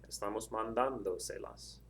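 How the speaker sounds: slow demo, "mandando" stressed on "dan"; accent on that A. Shown as a demonstration. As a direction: stretch the "dan" of "mandando", keep se las unstressed. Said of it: "have the accent mark over that A".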